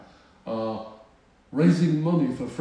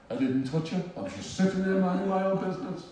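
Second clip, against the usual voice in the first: hasty, higher-pitched defensive blurt; blurted protest; 5 semitones higher, faster than usual. Retold or imitated. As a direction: blurt out your innocence in a rush. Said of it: "and I blurt out".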